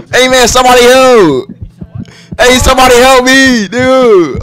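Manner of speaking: calling for help. Pretend. Calling teammates for help in game.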